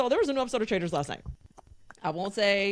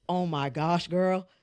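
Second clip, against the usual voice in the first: Rob's suggestive growl; 2 semitones lower, slower than usual. Retold or imitated. Podcaster re-enacting a contestant's line for doubting co-hosts, suggestive growl. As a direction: mimic him, letting innuendo sit under it. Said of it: "making it way more sexual".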